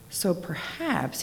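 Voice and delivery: slow, soft and sad; sadly. Acted. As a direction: let it sink, slowly. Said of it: "he said sadly to himself".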